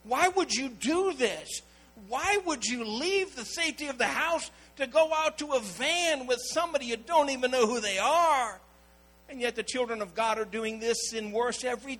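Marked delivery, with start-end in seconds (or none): 0.0-8.6 scolding parents. Retold or imitated. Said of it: "They finally said".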